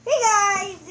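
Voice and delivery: loud, high hey guys; big cheerful intro; excited greeting. Real, not acted.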